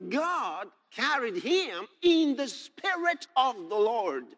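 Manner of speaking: slow, emphatic scripture reading. Acted. He says God carried him, slow emphatic preaching.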